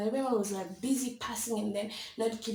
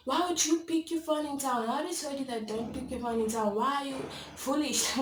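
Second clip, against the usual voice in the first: higher-pitched mock telling-off; scolding mother; 4 semitones higher than usual. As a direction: imitate mom scolding her child. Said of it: "after a lot of scolding".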